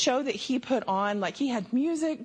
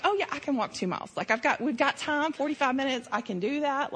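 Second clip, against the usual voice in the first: quick, higher, carefree self-assurance; breezy confidence; 4 semitones higher, faster than usual. Retold or imitated. Mocking her past self before the uphill walk, breezy. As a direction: brush it off like it's easy.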